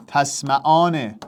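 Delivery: «تسمعان» drawn out slowly; slow dictation. Shown as a demonstration. Teacher repeating the verb slowly for students to convert. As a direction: stretch each syllable for the class. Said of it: "تو امرش کن".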